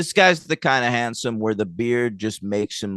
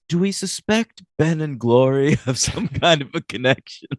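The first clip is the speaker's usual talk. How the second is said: higher, drawn-out mock pondering; slow, deliberate Giles; 5 semitones higher than usual. Cohost retelling Giles's slow question about Ben and Glory, slow imitation. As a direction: take your time over it, half laughing. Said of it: "he says it so slow".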